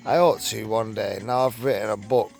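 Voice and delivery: reading a written account aloud; story read-aloud. Acted. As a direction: read it out like a magazine true story.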